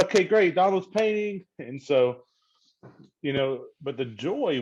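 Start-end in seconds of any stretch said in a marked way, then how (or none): 0.0-1.4 resigned. Retold or imitated. Sarcastic resigned quote.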